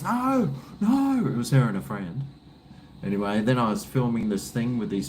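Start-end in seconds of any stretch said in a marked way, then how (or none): 0.0-1.3 high girly voice, lightly imitated; a hint of a shy young girl; girl's voice. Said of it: "She goes".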